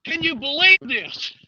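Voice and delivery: breathless after the fight; panting between words; out of breath. Real, not acted. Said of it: "Oh, I'm out of breath".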